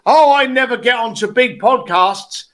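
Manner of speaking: mild imitation of a complainer; mock moaning. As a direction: lightly mimic someone bitching and moaning. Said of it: "bitching and moaning and going".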